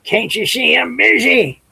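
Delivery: high drowsy cat voice; sleepy cat. Acted. Cat woken from a nap, high drowsy grumble. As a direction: grumble it half asleep. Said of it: "trying to wake up the cat".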